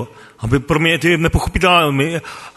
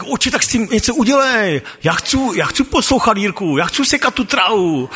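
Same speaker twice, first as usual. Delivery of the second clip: pleading prayer aloud; 4 semitones higher than usual. Retold or imitated. Alone at the pond, begging God in a raised pleading voice. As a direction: plead with God like he's right there. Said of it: "tak jsem si dovolil mluvit nahlas".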